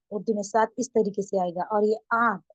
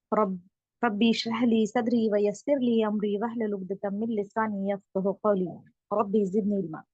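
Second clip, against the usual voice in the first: slow, devout recitation of a prayer; opening prayer, unhurried. Acted. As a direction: recite it as a blessing before class. Opening prayer before the lesson.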